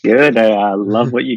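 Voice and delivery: numb mouth after the dentist. Real, not acted. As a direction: talk through a numbed mouth. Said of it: "sorry, my mouth is a bit, uh, numb".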